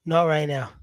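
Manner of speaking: playful whisper. Real, not acted. Teasing a live viewer with a whispered not now. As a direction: whisper it like a secret.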